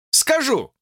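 sharp high exclamation; exclaiming. A narrator's reading. George to Lucy, exclaiming eagerly. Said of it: "воскликнул он".

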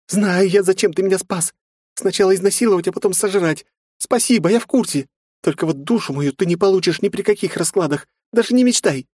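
very high, loud panicked scream; terrified shriek. A narrator's reading. Frightened girl screaming the demon away.

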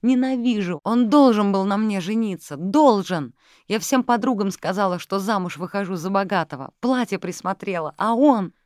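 high and loud, raging on; jilted secretary screaming about the wedding; furious shouting. Acted. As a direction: keep yelling the grievance. Secretary keeps screaming her grievance.

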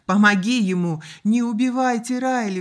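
loud, urgent plea; pleading. A narrator's reading. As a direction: beg for someone's life. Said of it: "взмолилась Анна".

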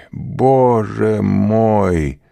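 stretched, very slow anguished repeat, still loud; long drawn-out lament; despairing cry. A narrator's reading. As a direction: let the cry linger and break. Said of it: "вскричал он".

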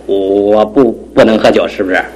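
tipsy stammering denial; drunk speech. Acted. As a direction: deny it drunkenly, stumbling. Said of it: "你都喝醉了".

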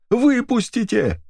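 one very high, slow, drawn-out scream; frantic scream. A narrator's reading. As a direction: stretch the word into a shriek. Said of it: "истошно кричала Эдит".

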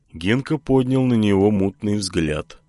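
ordinary delivery

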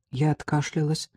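plain reading voice

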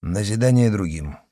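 "Назидание другим" said dry and level; dry and stern. Acted. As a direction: confirm "Назидание другим" coldly, strictly. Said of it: "сухо и строго подтвердил".

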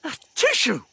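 high loud sneeze blurted out as words. A narrator's reading. Girl in the jungle sneezing, a sudden loud sneeze. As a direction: burst out sneezing. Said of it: "it came bursting forth".

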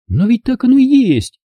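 high, defensive; Lauren defending. Acted. Lauren sides with Kurt, high defensive voice. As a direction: cut in for him. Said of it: "вступилась Лорен".

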